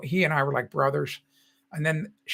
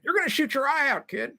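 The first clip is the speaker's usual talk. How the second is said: higher, teasing movie-quote voice; quoting the movie line; 9 semitones higher than usual. Retold or imitated. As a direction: toss off the famous line with a grin. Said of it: "they always say that".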